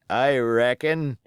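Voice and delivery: put-on wounded old pirate, rough and grumbling; pirate sailor. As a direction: play the injured seaman, griping. Pirate Hands speaks.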